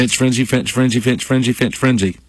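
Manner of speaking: quick, run-together tongue-twister attempt. Shown as a demonstration. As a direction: rattle off "Finch Frenzy" over and over without a pause. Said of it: "Say that three times fast".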